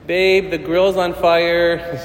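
slow, unhurried mild calm; a hint of a calm wife, drawn out. Patient wife calmly telling her husband the grill's on fire, mild calm. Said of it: "very calmly was like".

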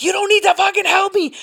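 high-pitched mock protest; acted-out flustered refusal; retold protest. Retold panicked refusal to security guy.

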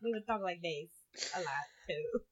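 silly Nacho Libre-style accent. Shown as a demonstration. Roommates goofing around, Nacho Libre accent. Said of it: "kind of a Nacho Libre thing".

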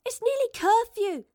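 high, loud call down the street; calling after her. Acted. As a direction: shout after someone walking off. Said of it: "Astrid called after her".

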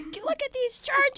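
slow, high mock parent scolding; stern parent. Parent scolding the kid over the phone bill, slow and high. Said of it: "your parents would be like".

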